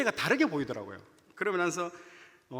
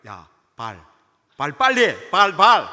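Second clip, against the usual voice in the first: loud, rising impatient shouting; impatient yell; 3 semitones lower, 11 dB louder, slower than usual. Retold or imitated. Teacher yelling at a student to put his foot out, impatient shout. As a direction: bark at the kid to hurry up.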